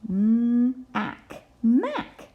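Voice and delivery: storybook voice calling to Mac; excited call. Acted. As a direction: read it like a child calling out with excitement. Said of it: "Do you see the exclamation point?".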